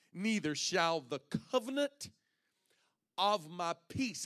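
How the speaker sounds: slow, hushed whisper; an intimate, hushed scripture whisper. Acted. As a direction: breathe the words slowly.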